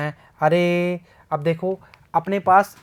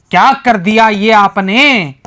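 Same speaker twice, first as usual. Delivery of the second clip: mock accusation; 7 dB louder, slower than usual. Real, not acted.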